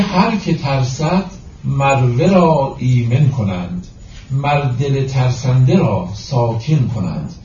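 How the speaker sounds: slow, measured verse reading; deliberate, metrical Persian verse delivery; poetry recitation. Acted. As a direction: recite the couplet with drawn-out syllables.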